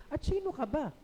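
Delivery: sarcastic. Retold or imitated. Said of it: "yung ganon ang tanong nila".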